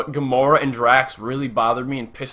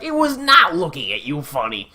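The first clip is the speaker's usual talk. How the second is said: flat deadpan Drax. Retold or imitated. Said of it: "and it's like".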